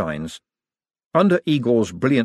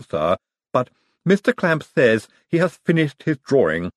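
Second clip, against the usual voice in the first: Igor's voice; 3 semitones higher than usual. Acted. Igor voiced by narrator.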